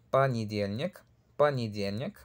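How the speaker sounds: понедельник as "panidyelnik", stress on the third syllable; careful понедельник with a rising end; Russian example word. Shown as a demonstration. Teacher giving an example, понедельник modelled with rising tune. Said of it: "Tenemos ejemplo".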